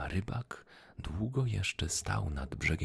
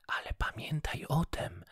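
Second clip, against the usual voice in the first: goldfish voice; 10 semitones higher than usual. Acted. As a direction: remind him gently as the fish. Goldfish speaks again.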